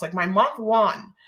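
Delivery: words slurred by a sore jaw. Real, not acted. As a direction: talk stiffly through a sore jaw. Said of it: "I'm talking weird".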